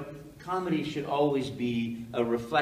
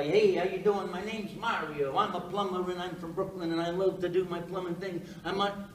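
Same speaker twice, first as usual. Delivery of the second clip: put-on higher-pitched Brooklyn accent; Brooklyn plumber; 4 semitones higher than usual. Rival actor auditioning as a plumber, put-on Brooklyn accent. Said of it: "every other actor would start".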